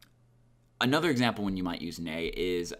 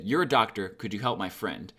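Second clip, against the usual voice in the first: assertive. Shown as a demonstration. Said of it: "that is being really assertive".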